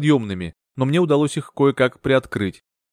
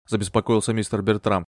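plain reading voice

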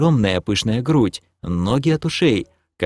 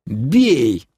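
mildly hollered battle cry; yelled command; 2 semitones higher than usual. Acted. Shoving scrolls at everyone, yelling attack. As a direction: yell the order to attack. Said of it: "завопил я".

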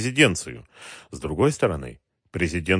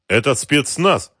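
slow, mildly astonished, pitched up; surprised; 6 semitones higher, 4 dB louder, slower than usual. A narrator's reading. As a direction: let a touch of disbelief into it. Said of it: "удивлённо сказал офицер". (слегка удивлённо, медленно)

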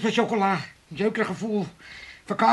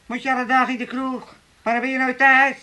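raised, whining mock of a nag; imitated nagging; 4 semitones higher than usual. Old man imitating his nagging wife, nagging. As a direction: mimic a nagging wife, pitched up. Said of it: "Ze zat altijd maar te zeuren".

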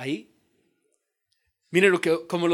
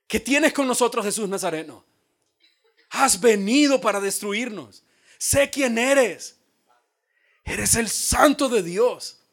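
a hint of a demon's voice, slow; slow, accusing demon speech; voiced demon; 3 semitones higher, 3 dB louder than usual. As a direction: demon confronting Jesus, lightly voiced. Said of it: "él decía".

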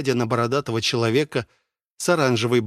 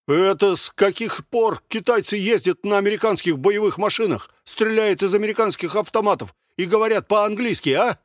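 higher, pushy challenge; aggressive question; 8 semitones higher than usual. A narrator's reading. Black-haired soldier aggressively challenging the red-haired one. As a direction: press him hard with it. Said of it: "агрессивно спросил черноволосый".

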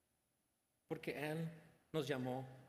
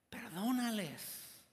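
high, slow, drawn-out plea at raised volume; loud dying cry; 8 semitones higher, 4 dB louder, slower than usual. Acted. Preacher voices Esteban's last words to God, loud high cry. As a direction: cry it out slowly with a last great effort. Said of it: "gritó en alta voz".

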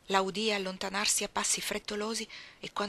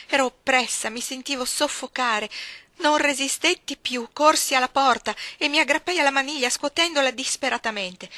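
much louder and higher, slowing on the climax; rising panic; 6 semitones higher, 8 dB louder than usual. A narrator's reading. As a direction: let the terror build until she breaks. Racconto del panico crescente. (panico crescente, molto più forte e acuto)

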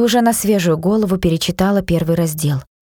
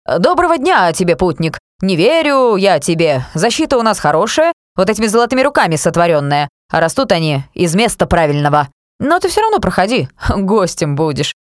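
rattled off. Acted. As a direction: gabble the lines like a reluctant actor. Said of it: "подскочил с травы и протараторил".

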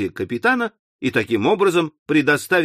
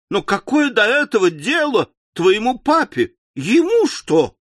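despairing wail; 7 semitones higher than usual. Acted. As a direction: sob out the bitter question. Wife sobbing over husband.

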